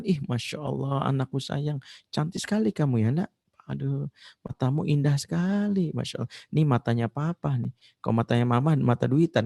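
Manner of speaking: a light touch of a tender, doting dad praising his daughter; mock doting father. Father the preacher wishes for, praising his daughter's eyes, lightly tender. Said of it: "Nggak pernah mengatakan".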